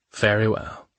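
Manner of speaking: a lightly cryptic, knowing "Very well"; mystifying. Acted. Man answers her worry with a cryptic, lightly voiced "Very well". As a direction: keep "Very well" mysterious, level and even. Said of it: "he said mystifyingly".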